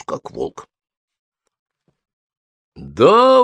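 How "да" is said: eager high yes; exclaiming. A narrator's reading. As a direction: jump at the offer. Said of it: "воскликнула Софи". (радостно воскликнув)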